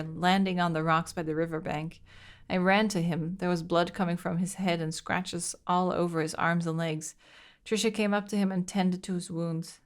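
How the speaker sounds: steady letter reading voice; reading a diary aloud. Acted. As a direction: read the diary entry evenly.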